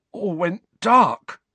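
slow, high, hoarse shudder. A narrator's reading. Shaken son telling parents what happened, hoarse. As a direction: force it out hoarsely after a fright. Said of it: "Dudley said hoarsely".

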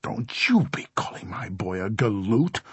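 strained, indignant shrilling; shrill at him in defence of your boy; shrill protest. A narrator's reading. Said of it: "Missus Doolin shrilled".

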